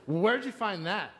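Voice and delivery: mimicked clerk questioning a customer; imitating young clerk. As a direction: repeat the kid's question with exaggerated disbelief. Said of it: "That's how he said it".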